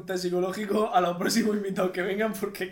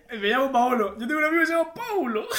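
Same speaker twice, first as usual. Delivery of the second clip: laughing mimicry; 4 semitones higher than usual. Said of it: "friend mimics the exchange".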